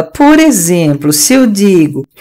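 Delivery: slow, lightly mimicked teacher; imitating teacher. Retelling how the teacher began, slow imitation. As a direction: stretch the words like the teacher. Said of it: "tô imitando".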